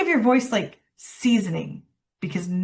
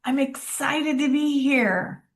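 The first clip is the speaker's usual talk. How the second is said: excited; 4 semitones higher than usual. Shown as a demonstration. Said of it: "It says".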